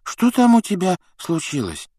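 high, groggy question; half-awake and bothered; sleepy grumble. A narrator's reading. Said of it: "неразборчиво пробормотал Рон".

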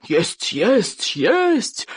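repeated word climbing to a high cry; exasperated yell. A narrator's reading. Chieftain losing patience with the boy, exasperated yell. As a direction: escalate until the last word breaks high. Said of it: "завопил Норберт Сумасброд".

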